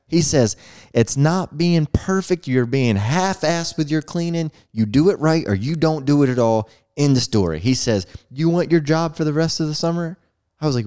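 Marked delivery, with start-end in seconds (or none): 0.9-6.7 stern father lecture. Retold or imitated. Dad lecturing on sloppy cleaning. 8.3-10.2 higher, pointed question; stern father. Retold or imitated. Father challenging his son about his job, stern.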